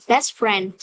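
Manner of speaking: "Best friend" with the T of "Best" left out; "Best friend" said as "bes friend"; dropped T. Shown as a demonstration. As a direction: glide from S straight into F in "Best friend". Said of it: "chữ T cuối nó sẽ thường hay biến mất".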